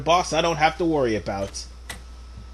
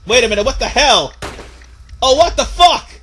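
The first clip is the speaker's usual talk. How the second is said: rising outrage, what the hell; can't believe what he sees; disbelieving; 5 semitones higher, 4 dB louder than usual. Real, not acted. Disbelief at idle medic.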